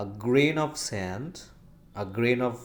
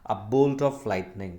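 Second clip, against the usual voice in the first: whisper. Shown as a demonstration. Teacher reading an example phrase.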